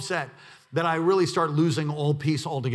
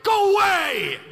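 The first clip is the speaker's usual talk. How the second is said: higher, louder, half laughing; laughing mock shout; 8 dB louder, slower than usual. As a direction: shoo him off with a laughing yell. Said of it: "I just wanna be like".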